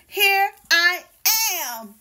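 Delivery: put-on boy shouting from his hiding place, high and loud; shouted again. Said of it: "shouted Peter".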